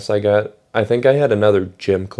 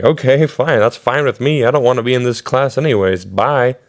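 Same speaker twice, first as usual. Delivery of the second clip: mildly defiant, acted-out brush-off; defiant retort; 3 semitones higher than usual. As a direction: re-enact a student's dismissive exit. Student storms out of retold quarrel.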